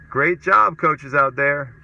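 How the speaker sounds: mock-congratulate the bad coaches; exaggerated, sarcastic pat on the back; sarcastic praise. Real, not acted.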